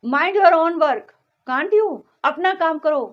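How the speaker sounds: loud scolding command. Shown as a demonstration. Teacher scolds a pupil, loud and stern. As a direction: snap it at someone who won't listen. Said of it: "वहाँ पर आप डांट कर कह रहे हो".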